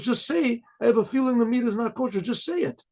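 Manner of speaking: high-pitched exasperated protest, imitated; indignant crowd, voice pitched well up; retold anger. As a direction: scold him in mock exasperation. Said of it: "they all got very angry at him".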